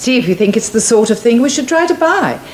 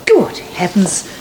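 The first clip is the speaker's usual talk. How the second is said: startled whisper; slower than usual. Acted. Finds them crouched in church.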